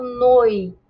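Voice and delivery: "noite" drawn out as noi-te; two syllables. Shown as a demonstration. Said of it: "Quando eu vou impulsionar a minha voz".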